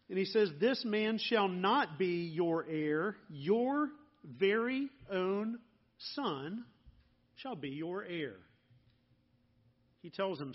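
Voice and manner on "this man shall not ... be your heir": solemn voice of God. Retold or imitated. God's promise quoted to Abram.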